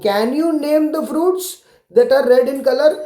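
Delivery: the question said slowly; slow read question. Shown as a demonstration. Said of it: "वो पूछ रहे हैं आपको".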